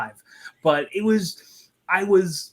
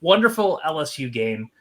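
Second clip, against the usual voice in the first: lightly sarcastic praise; a touch of dry sarcasm. Real, not acted. Host recalling a game that ended the win streak, sarcastic. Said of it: "I'm being sarcastic about".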